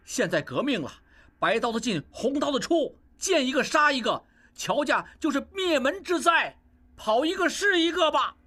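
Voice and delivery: a brother urging his uncle to flee; panicked urging. Acted. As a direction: rush the warning, climbing in alarm. Panicked brother urges fleeing.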